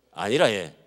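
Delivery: Gyeongsang accent demo; rise-and-fall Gyeongsang lilt; Gyeongsang dialect. Shown as a demonstration. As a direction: say it like a Gyeongsang local. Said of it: "경상도 말로 뭐예요".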